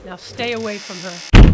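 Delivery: loud final command; shouted warning. Acted. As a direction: bark the last warning.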